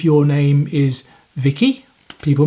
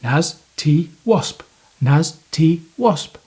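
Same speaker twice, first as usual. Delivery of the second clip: said slowly, each part separate. Shown as a demonstration. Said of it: "So if you say it fast".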